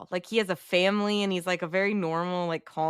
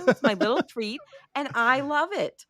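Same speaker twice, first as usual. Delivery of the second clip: put-on higher, whiny childlike plea; mock childish whine; 7 semitones higher than usual. Franco to the others defending his candy, a higher whiny plea. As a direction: play the spoiled kid guarding his treat. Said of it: "he's like".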